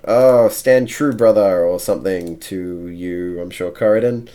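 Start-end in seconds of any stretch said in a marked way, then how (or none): 0.1-1.7 lightly acted, rousing call to a comrade; a touch higher and louder, hearten him; Olo. Game master voicing Olo to Corridon, lightly acted encouragement. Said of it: "he would say something about".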